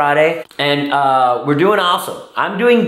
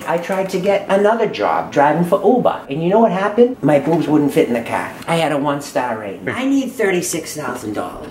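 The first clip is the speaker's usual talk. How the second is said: put-on older mom voice; 4 semitones lower than usual. Holds mother character voice.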